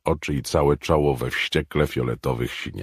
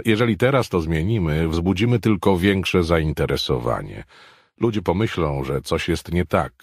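a lightly voiced, higher, louder boss; authoritative Hicks; 7 semitones higher, 5 dB louder than usual. Hicks ruling on the question for the table, lightly voiced authority. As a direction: settle the argument calmly.

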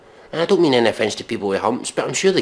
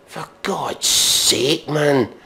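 drawn-out despair; 3 semitones higher, much slower than usual. Real, not acted. Exasperated despair.

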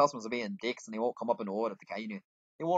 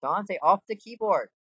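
much louder, higher, drawn-out command; real scolding yell; 8 semitones higher, 8 dB louder, slower than usual. Real, not acted. Player ordering Dante off the keyboard, scolding yell. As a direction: yell slowly to get them off.

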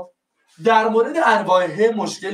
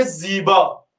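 slow model word; much slower than usual. Shown as a demonstration. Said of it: "بگو".

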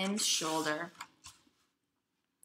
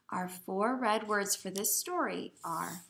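whisper. Shown as a demonstration. Whispered teacher read.

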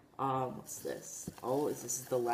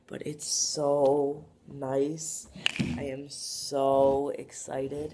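drawn-out delight; 6 dB louder, much slower than usual. Real, not acted. Slow savoring excitement.

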